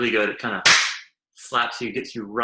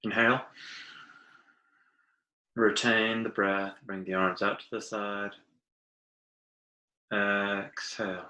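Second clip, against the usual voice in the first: guided breathing; 3 dB quieter than usual. Acted. Teacher leading listeners through arm stretches, guided breathing. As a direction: lead the breath softly, with long pauses.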